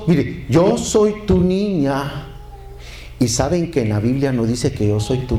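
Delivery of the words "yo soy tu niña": high, slow "yo soy tu niña"; emphatic misquote. Retold or imitated. Preacher quoting a badly sung chorus, "yo soy tu niña" drawn out high. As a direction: stretch out "yo soy tu niña" in a raised pitch. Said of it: "hay un coro que lo cantan mal".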